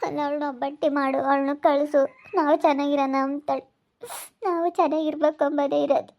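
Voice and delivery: mildly weepy, wounded protest; tearful. Acted. Aunt repeating the cruel words said of her, tearful. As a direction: protest through held-back tears. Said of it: "ಅಳಬೇಡ್ರಿ, ನೀವು ಕಣ್ಣೀರ್ ಹಾಕ್ಬೇಡ್ರಿ".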